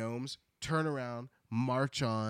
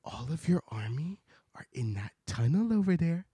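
whispered secret. Acted. Ozma telling the Gnome King the plan, whispered. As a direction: confide it in a hush. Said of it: "she says".

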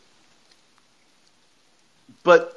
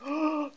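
mock gasp; 8 semitones higher, 9 dB quieter than usual.

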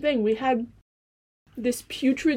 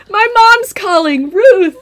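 loud call across the room; 10 semitones higher, 12 dB louder, slower than usual. Real, not acted. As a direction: shout the name out. Calling out to mom's name.

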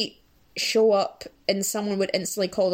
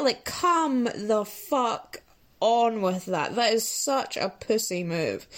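disdainful; slower than usual. Real, not acted. Slow laughing disdain.

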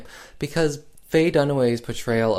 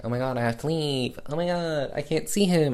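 high-pitched hammed-up lament; mock distress; 5 semitones higher than usual. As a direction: imitate an overdramatic confession, pitched up. Retelling Barb's dramatic confession.

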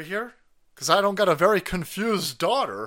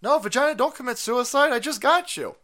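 higher-pitched comic begging; mock pleading; 5 semitones higher than usual. Body begging the vagina to stay, mock pleading.

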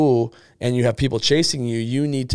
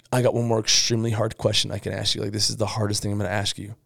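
hushed, softer, faster mock suspense; mock grave hush; 4 semitones lower, 5 dB quieter, faster than usual. Shown as a demonstration. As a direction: lean in and build fake tension. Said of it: "you lean over and you build the momentum".

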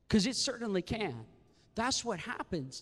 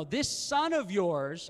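louder, slow contempt; angry son; 6 dB louder, slower than usual. Acted. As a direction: drag out the words with scorn. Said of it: "he's angry".

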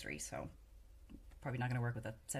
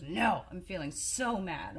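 slow, drawn-out mock-angry protest; imitating mad daughter; 4 semitones higher, 4 dB louder, slower than usual. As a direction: act out a small child insisting she's mad. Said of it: "It seems like you're feeling mad".

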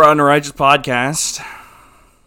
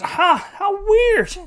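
third father; 11 semitones higher than usual. Acted. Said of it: "He goes".

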